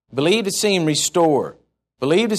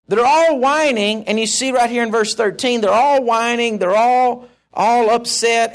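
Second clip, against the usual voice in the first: raised preaching voice; 6 semitones higher, 3 dB louder than usual. Real, not acted. Describing the whining people.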